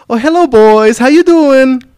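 put-on very high, loud broken-English accent. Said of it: "you have the accent".

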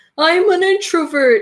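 big extroverted voice, belted, loud and high. Imitating Oprah Winfrey saying a line: extroverted Oprah Winfrey voice. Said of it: "in the most extroverted voice you'll ever hear".

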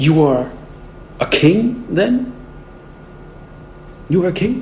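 scornful, disbelieving, mocking, goading taunt. Speaker retells Pilate questioning Jesus: acting out Pilate's mocking tone. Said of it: "you can just picture the mocking tone".

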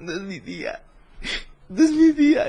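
very high, tearful weeping lament. Telling a joke about a robbed man tied to a post: imitating someone crying. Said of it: "Y llorando".

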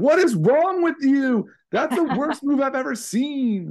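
very high, slow, mocking little-kid taunting voice. Retelling how a kid mocked chess bots: imitating a kid mocking. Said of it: "I don't know if we need to mock the bots".

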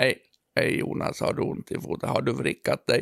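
mock droning, flat, low, dull, bored monotone. Imitating how a grey-haired man from india spoke to jonas, monotone and boring. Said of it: "Han pratade otroligt tråkigt. Entonigt".

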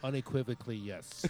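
very soft, hushed, put-on nasal voice. Agreeing in a group, insisting on saying yes this way: put-on nasal voice. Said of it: "I have to say it like this. ... with the nasally white voice?".

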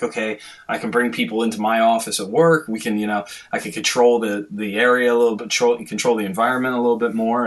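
ordinary delivery

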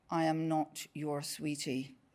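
low, hushed, vaguely menacing, practised threatening tone. Speaker reenacts replying to a man who called them sweetie, in a low threatening tone. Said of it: "in the low and vaguely threatening tone I have polished over years".

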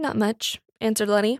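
ordinary delivery

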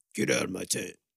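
rough, low, gruff put-on growling voice. Imitating someone in a tent telling a visitor to leave. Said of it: "keep doing that voice".

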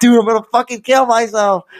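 mock very high, shrill, loud scream. Retelling being held by Sethi, the speaker acts out their past self screaming. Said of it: "I'm like screaming and I'm like".

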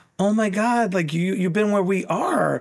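acted tearful, high, sobbing, crying through words. Speaker retells a girl sobbing at the back of the room: imitating someone sobbing. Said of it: "one girl's sobbing in the back of the room, like crying".

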